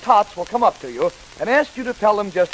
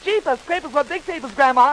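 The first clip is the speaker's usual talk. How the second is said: astonished; 5 semitones higher than usual. Acted. Red startled by the disguised wolf.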